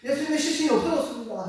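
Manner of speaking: a hint of weeping Mary; mock tearful lament. Mary of Magdala crying to the angel, mildly tearful. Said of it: "막 울면서 안타까워하는 겁니다".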